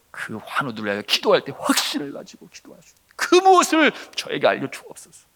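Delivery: re-enacted fervent petition; earnest supplication. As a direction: plead it, lifting the final request. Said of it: "그와 같은 내용으로 주님 앞에 금식을 하며 기도하는데".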